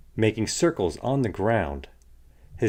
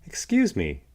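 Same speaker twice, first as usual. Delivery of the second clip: cricket voice; 9 semitones higher than usual. A narrator's reading. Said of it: "coughed the cricket".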